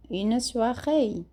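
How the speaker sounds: teacher shows how "une soirée" ends, a gentle "rei"; French soirée. Shown as a demonstration. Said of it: "A gente fala assim, aqui".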